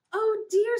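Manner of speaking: high, loud squeak of alarm; worried mice. Acted. The other mice fretting over their friend, high and loud. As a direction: gasp it out as frightened little mice. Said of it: "said the other mice".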